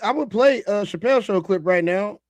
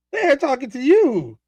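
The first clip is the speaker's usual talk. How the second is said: slow repeat; 6 semitones higher, slower than usual. Real, not acted. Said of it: "They talking to you".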